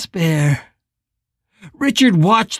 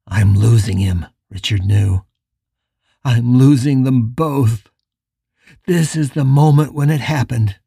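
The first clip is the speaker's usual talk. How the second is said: lower, grieving man; anguished Richard; 3 semitones lower than usual. Acted. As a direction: voice Richard's despair, low.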